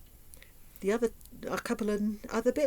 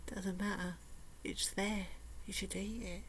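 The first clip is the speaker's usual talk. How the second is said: soft, sly coaxing murmur, softer throughout; coaxing inner voice; 10 dB quieter than usual. Retold or imitated. Inner voice coaxing her to eat ice cream, softly wheedling. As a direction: wheedle gently, like a temptation. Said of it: "your little brain ... will be saying".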